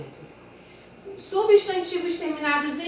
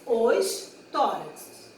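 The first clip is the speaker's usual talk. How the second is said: slow plural; 2 semitones lower, much slower than usual. Shown as a demonstration. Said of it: "Então, é o tórax".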